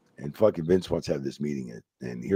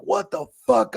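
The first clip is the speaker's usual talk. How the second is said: mock disbelief. Reacting to five thousand fine.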